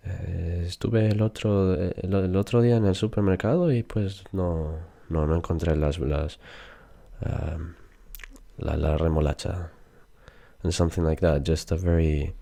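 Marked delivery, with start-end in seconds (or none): 0.1-9.7 a lightly imitated Castilian speaker telling a story; hesitant Castilian storytelling, lisped S and all; Spain Spanish accent. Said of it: "when a Spanish people talks, it's something like".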